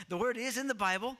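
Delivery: half-laughing excuse. Real, not acted. Laughing apology to kids.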